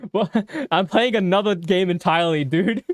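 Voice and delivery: loud, laughing outburst; real surprise at the twist; amused disbelief. Real, not acted. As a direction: gamer telling viewers it is a different game. Gamer reacts to surprise twist.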